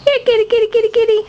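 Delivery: high, sing-song here kitty; calling the cat. Real, not acted.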